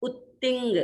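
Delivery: उत्तिंग with pressure on उ and a double त; उत्तिंग with a held त्त; stress on the u. Shown as a demonstration. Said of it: "ऊपर थोड़ा सा दबाव".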